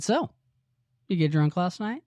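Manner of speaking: high, lilting imitation of a sly tease; sly questioning. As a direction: retell a probing question with a sly smile. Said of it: "kind of with a sly smile on her face".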